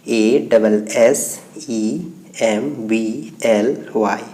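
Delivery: slow, measured letter-by-letter spelling. Shown as a demonstration. Teacher giving students the spelling of assembly, slowly spelled out.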